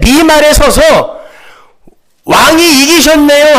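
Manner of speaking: impassioned preaching. Real, not acted. Preacher explains salvation as the king's captive, impassioned preaching. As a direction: drive the point home to the congregation.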